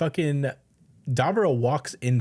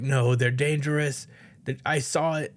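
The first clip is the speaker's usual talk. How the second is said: lightly voiced frantic old man; an elder warning about the Earthlings, mildly alarmed; 4 semitones higher, slower than usual. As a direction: warn them, a touch panicked. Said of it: "he's like".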